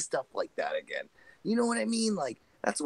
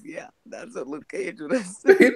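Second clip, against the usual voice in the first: louder, higher put-on tough voice; Luke Cage voice; 7 semitones higher, 7 dB louder than usual. Friend riffing on Luke Cage, put-on tough voice.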